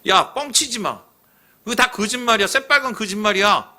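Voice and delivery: 대놓고 비웃듯 높게; Joshua scoffing. Retold or imitated. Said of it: "여호수아가 어떻게 합니까?". (여호수아가 백성에게 거짓말이라며 높은 목소리로 비웃음)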